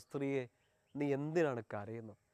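soft, slow and tender, as Jesus asking; gentle question. Acted. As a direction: ask her softly why she weeps, with care. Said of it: "ഒറ്റ ചോദ്യം ഈശോ ചോദിക്കുന്നുള്ളൂ".

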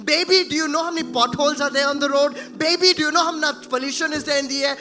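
put-on fast, gloomy lecture to a baby; mock worried parent. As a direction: rattle off doom at the baby. Mocking parent scaring baby.

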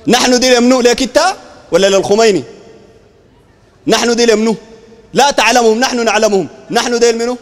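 loud, pressing demand on دي; loud challenge. Real, not acted. Pressing the opponent repeatedly.

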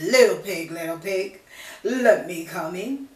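loud wolf calling at the door; a hint of big bad wolf, loud.

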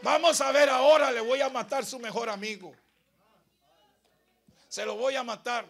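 high roaring threat, easing to loud; defiant shout. Acted. Death vowing to kill his best friend, shouted defiance. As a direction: bellow a challenge, then press the threat.

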